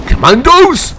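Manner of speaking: high, loud cry of a name; shout. Acted. Brother watching the attack, shouting. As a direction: shout to stop him. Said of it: "was watching this display and shouted".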